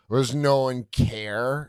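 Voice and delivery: slow mock drunk lament; drunk lady. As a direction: drag it out like a drunk woman. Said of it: "this drunk lady walks up".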